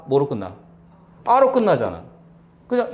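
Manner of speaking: normal talking voice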